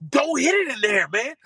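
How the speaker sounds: high-pitched mock exasperation; exasperated scolding. Retold scolding after bunker shot.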